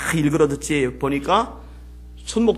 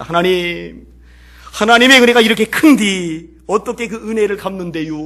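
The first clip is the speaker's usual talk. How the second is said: a leper pleading with God, voice lifted and louder; earnest prayer; 6 semitones higher, 7 dB louder than usual. Retold or imitated. Leper praying in church, repeating his earnest plea. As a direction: pray it earnestly, like a heartfelt cry to God. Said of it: "뒷사람의 기도가 너무너무 간절해요".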